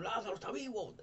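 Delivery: high, overcome with joy; tearful joy. Retold or imitated. Sister weeping as dead brother walks, tearful joyful cry. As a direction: cry it out through happy tears. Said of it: "la hermana llorando de emoción".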